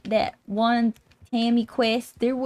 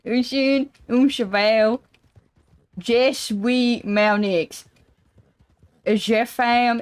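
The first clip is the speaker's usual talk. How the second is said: put-on country accent French; 2 semitones higher, slower than usual. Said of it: "country accent".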